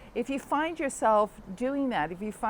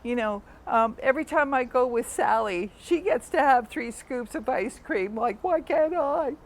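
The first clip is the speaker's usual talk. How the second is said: put-on whining child; 3 semitones higher, 4 dB louder than usual. Child begging parent for ice cream, whining. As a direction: beg like a sulky kid who wants more ice cream. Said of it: "And the child goes".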